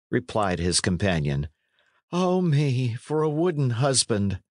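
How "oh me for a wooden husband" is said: mock lament. A narrator's reading. Mock lament over wooden bridegroom.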